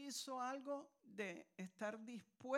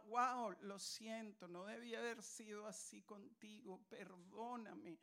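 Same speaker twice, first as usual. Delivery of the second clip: sad voice. Retold or imitated. Preacher voicing an apology to someone wronged, sad hushed voice. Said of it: "con voz triste le decimos".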